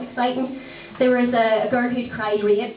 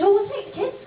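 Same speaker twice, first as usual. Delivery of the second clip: in-laws' voice; 10 semitones higher, faster than usual. Retold or imitated. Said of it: "And they said".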